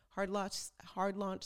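bang out "hard launch" like an announcement; firm hard launch. Shown as a demonstration. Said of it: "it's a hard launch if you put it out there".

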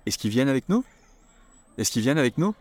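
"Est-ce qu'il" said as "ess-ki", the L dropped; casual spoken French. Shown as a demonstration. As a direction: say it like a native, quick and run together. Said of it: "And if it's plural".

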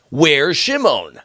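drawn out, anxious and high; slow, worried repeat. Acted. Father pressing his sons about Shimon, slow and anxious. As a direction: stretch each word, the worry sinking in.

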